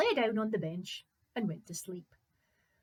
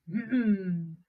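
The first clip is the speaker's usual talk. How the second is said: loud wordless giant hum; giant's grunt; 6 dB louder than usual. Acted. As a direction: answer with a heavy grunt. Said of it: "The giant made noises".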